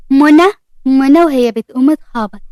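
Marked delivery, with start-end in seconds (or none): 0.1-1.2 calling the name out, slow and louder; mild shout. Acted. Ward spotting Mona hiding, calling out her name. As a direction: call منى across the lab, drawn out. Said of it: "ورد بصريخ".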